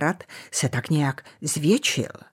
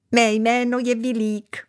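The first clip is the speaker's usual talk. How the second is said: much higher squeaky bat voice; thin squeak; 5 semitones higher than usual. Acted. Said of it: "vypískl tenkým hláskem". (tenký pisklavý hlásek)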